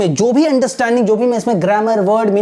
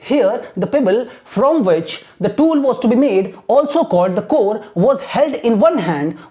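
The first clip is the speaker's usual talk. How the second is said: slow, careful read-aloud for students; slow textbook reading; much slower than usual. Shown as a demonstration. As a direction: read each phrase slowly for learners to repeat. Reads the textbook aloud slowly. (धीमी पाठ्य-पुस्तक पढ़ाई)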